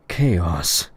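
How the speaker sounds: "Chaos" punched as its own sentence; emphatic repeat. A narrator's reading. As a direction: land hard on "Chaos".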